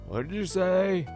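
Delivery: high loud shocked judge; surprised judge. Acted.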